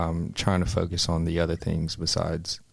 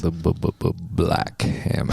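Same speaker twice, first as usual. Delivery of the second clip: soft, smooth voice. Pretend. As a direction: draw it out smoothly, playing along on request. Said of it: "say it again in a soft, smooth voice".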